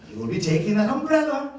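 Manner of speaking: insistent Irish granny, high and loud; quick, firm order in an Irish accent; thick Irish accent. Retold or imitated. Irish grandmother orders grandchild to take umbrella, thick Irish accent. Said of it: "with her thick Irish accent".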